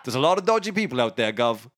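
matey Cockney mock prayer; Cockney accent. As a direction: recite a prayer as a chummy Cockney. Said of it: "in Cockney".

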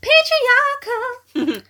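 slow, drawn-out whisper; a mock-sinister whispered aside. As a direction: breathe the word out slowly. Deadpan whispered one-word answer.

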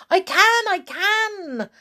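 high, loud, eager cry. A narrator's reading. Wife strapped to balloons, crying out high and loud. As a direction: cry it out, thrilled and strained. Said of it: "cried Missus Twit".

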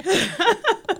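high-pitched burst of laughter. Real, not acted. Laughing at the joke.

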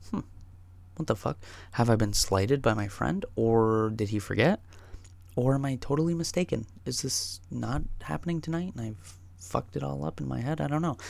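lightly puzzled musing; quizzical and pensive. Acted. Sober visitor stood up by a friend, mildly quizzical musing. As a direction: wonder it aloud, mildly bemused. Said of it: "very quizzical and pensive".

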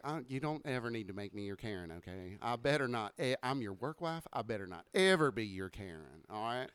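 Caitlin impression. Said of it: "That is such a great Caitlin".

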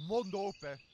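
yelled order to open up; loud order. Acted. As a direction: bark it now, out of patience. Repeats order much louder.

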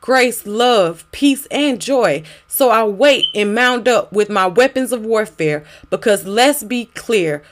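spoken word poem. Acted. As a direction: perform it as a pleading poem.

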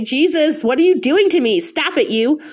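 choked up, pitch rising, half laughing; real tears she's trying to hold back; fighting back tears. Real, not acted. Thanking her listeners, she gets choked up and tearful. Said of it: "I'm trying not to cry".

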